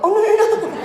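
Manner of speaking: high, loud overlapping no no no; flustered high protest. Retold or imitated. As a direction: wave off the apology, voice jumping up. Reassuring girl in retold scene.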